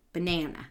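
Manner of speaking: "Banana" with an unstressed, quick first syllable; weak first syllable. Shown as a demonstration. Therapist showing unemphasized first syllable, natural "Banana". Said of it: "meaning we don't emphasize it".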